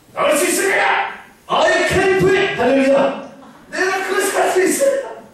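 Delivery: high, loud, bursting with eager confidence; eager boy volunteering. Acted. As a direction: shout it like a brave boy begging to go. (왕에게 나가겠다고 외치는 소년 다윗, 높고 힘찬 외침)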